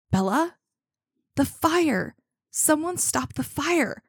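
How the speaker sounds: mild, high-pitched cry of panic; understated storybook scream; narrated scream. A narrator's reading. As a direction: cry out in pain, but reading aloud, not screaming. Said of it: "I screamed as it burned me".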